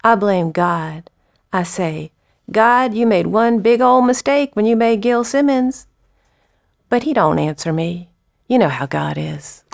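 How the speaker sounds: lilting dramatic-monologue recital; poem reading. Acted. Poet reads Gil blaming God, measured recital. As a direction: read verse as a plain-spoken Southerner, with pauses.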